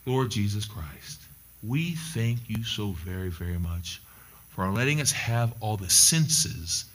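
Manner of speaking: hushed, reverent prayer. Acted. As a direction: lead the congregation gently into prayer. Leads prayer.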